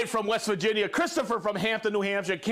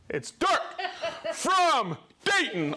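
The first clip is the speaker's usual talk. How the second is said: laughing; 9 semitones higher, slower than usual. Real, not acted. Laughs at viewer's joke name.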